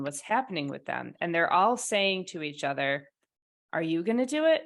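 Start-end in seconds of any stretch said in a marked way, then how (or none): 3.7-4.7 higher-pitched question, rising at the end; quoting a questioner, lifted voice; retold questioning. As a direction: ask it as a bystander would, pitch climbing. Retold question among hesitant bystanders.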